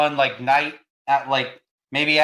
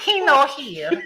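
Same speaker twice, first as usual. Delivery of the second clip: put-on broken English accent; 10 semitones higher, slower than usual.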